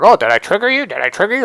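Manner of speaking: high, lilting fake-concern imitation; mock-concerned taunt. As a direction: needle them with an exaggerated questioning lilt. Imitates a narcissist's taunting question.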